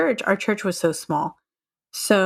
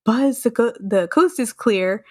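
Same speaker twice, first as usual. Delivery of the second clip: dazed calm; 3 semitones higher than usual. Retold or imitated. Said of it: "in a dazed voice".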